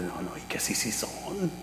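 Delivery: very soft, low self-convincing murmur; retold private reasoning, kept under the breath; talking to himself. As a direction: think aloud very quietly. Retells examining the coins to himself.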